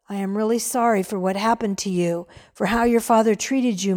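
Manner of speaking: put-on calm the angry young man; gently. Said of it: "Mister Rich said gently".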